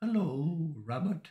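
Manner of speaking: high put-on cartoon voice. Recalling how well a friend did a voice, in a Winnie the Pooh voice. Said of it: "can you do the Winnie the Pooh accent again".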